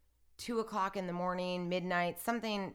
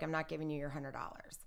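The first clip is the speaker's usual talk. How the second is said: quick whispered refusal, softer; 5 dB quieter, faster than usual. Retold or imitated. The shooter refusing to pay the bet, whispered. Mike refusing in retold argument.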